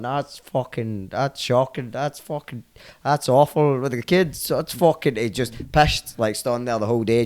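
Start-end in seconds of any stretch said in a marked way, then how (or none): 0.0-5.2 Irish bystander. Retold or imitated. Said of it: "a wee Irish guy at the side going".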